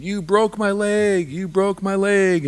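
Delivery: high, slow pained wail; cry of pain. Acted. Meadowlark cries out in pain to Salmon, high and slow. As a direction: Meadowlark wails at Salmon over his broken leg. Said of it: "screamed out in pain".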